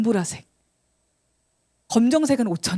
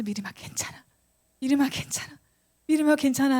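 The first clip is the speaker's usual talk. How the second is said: gentle reassurance; 3 semitones higher than usual. Retold or imitated. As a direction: soothe her over and over, building up. Friend reassuring, repeated thrice.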